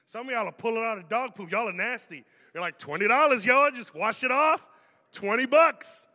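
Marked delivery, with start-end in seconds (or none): 2.8-4.7 excited shout. Pretend. Churchgoer pulls money from dog poop. 5.1-6.1 loud, high, gleeful "Twenty bucks."; gleeful shout. Pretend. Churchgoer pulling cash from dog poop, gleeful shout.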